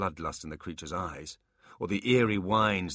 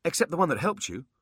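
blurted demon voice; 10 semitones higher, 4 dB louder, faster than usual. Acted. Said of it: "before he could stop himself".

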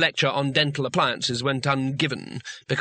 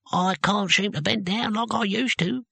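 put-on a touch sheepish, higher old man's voice; 7 semitones higher than usual. A narrator's reading. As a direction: admit it a little embarrassed. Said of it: "said Cohen sheepishly".

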